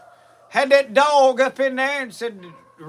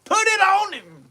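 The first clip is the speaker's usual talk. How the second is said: a mock hunter's cheer, raised high; hollering encouragement; 3 semitones higher than usual. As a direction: holler at the dog like a proud owner. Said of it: "Uncle Versi was a hollering".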